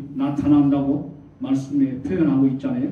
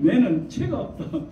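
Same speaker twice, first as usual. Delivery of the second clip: higher-pitched Gyeongsang dialect imitation; 5 semitones higher than usual. God speaking to Gyeongsang people, in Gyeongsang dialect. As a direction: put on God's Gyeongsang lilt. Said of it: "그렇게 말하는데 경상도".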